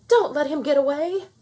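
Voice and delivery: loud, high urgent call; urgent shout. A narrator's reading. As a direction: yell after the runaway. Woman shouts after fleeing monkey.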